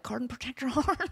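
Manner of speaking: giggling through the catchphrase; laughing mock quote. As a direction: laugh while parroting it. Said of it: "the guy with the weird voice".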